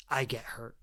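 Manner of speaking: low near-whisper, soft and vulnerable; hushed hurt. Retold or imitated. Men voicing an old wound, hushed and hurt. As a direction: let it drop to a pained hush.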